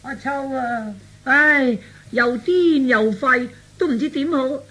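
slow, drawn-out woeful complaint; put-on lament. Father showing visitor his mad son, slow mock lament. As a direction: sigh it out as a helpless parent.

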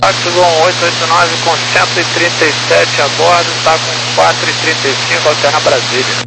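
tinny radio transmission voice; crackly cockpit radio readback; pilot over the radio. Real, not acted. Pilot calling ground over radio.

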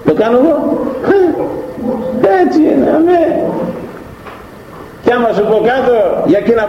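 high put-on voice of the humble woman; voiced woman. Voices the slandered woman's dialogue.

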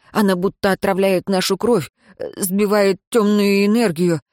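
nervous report to the master; hesitant servant. Acted. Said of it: "тихо проговорил второй голос".

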